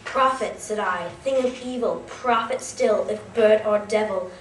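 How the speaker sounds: emphatic, declaimed verse with forceful beats; dramatic poem recitation. Acted. Student reciting Poe's The Raven to an audience, dramatic recitation. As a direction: declaim it with weight on key words.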